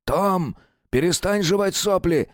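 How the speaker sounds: high, barking sergeant voice; drill sergeant. A narrator's reading. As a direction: bark it at a mumbling private. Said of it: "гаркнул сержант". (сержант гаркает на солдата)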